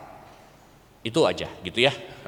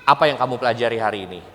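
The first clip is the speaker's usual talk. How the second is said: serious tone; 5 semitones lower, faster than usual. Shown as a demonstration. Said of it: "Jadi nadanya serius".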